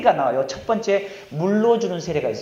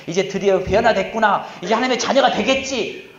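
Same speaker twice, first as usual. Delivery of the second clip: imitated hopeful excitement; 2 semitones higher, 5 dB louder than usual. Teachers watching students repent, imitated hopeful excitement. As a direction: mimic teachers rejoicing over changed students.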